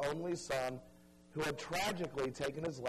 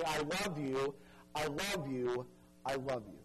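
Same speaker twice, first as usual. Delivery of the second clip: God's tender words; 3 semitones lower than usual. Pretend. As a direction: repeat it gently, fading, as if to one person after another. God voiced to each person.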